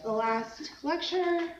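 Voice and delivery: blocked nose, congested voice; stuffy nose. Real, not acted. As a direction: talk through a stuffy cold nose. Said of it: "excuse my voice, I'm just really stuffy today".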